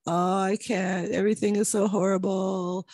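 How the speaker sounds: slow whiny mock pity; lightly hammed-up poor-me moan; mock whining. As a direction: drag it out like a self-pitying complainer. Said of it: "I want you to stop whining, ... stop going".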